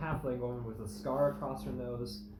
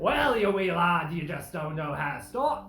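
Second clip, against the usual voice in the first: put-on Nordic accent; 5 dB louder than usual. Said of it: "Nordic halfling".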